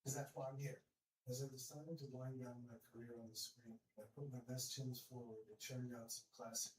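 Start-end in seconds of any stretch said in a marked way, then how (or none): 0.1-0.8 impressed bystander voice. Retold or imitated. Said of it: "and say".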